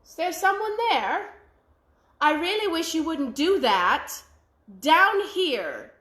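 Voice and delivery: a wee voice calling up from the ground; tiny man calling up to him; little voice. Acted. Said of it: "heard a little voice say".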